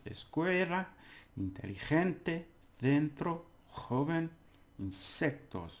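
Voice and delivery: escuela, inteligente, dentro, joven, insectos, each stressed syllable lifted high; stressed syllables pushed up. Shown as a demonstration. Teacher saying all five at once, marked stresses. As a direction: recite escuela through insectos as a list, punching each stress. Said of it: "see where the stress comes in".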